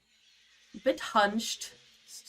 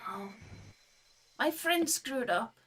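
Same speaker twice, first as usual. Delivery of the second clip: higher, small creature voice; lightly voiced little creature; tiny creature voice; 3 semitones higher, 3 dB quieter than usual. Creature in dialogue.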